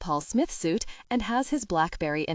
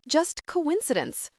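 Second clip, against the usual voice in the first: high, slow, slightly strangled; a bit strangled; 10 semitones higher, slower than usual. A narrator's reading. Wife covering up to her husband, slightly strangled. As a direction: stretch it out in a tight high voice. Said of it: "My voice is a bit strangled".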